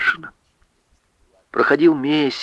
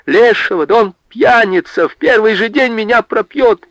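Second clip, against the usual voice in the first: high, distressed protest; high-pitched wailing objection; tearful pleading; 11 semitones higher, 3 dB louder than usual. A narrator's reading. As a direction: plead with father, high and urgent. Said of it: "взмолилась она слёзно".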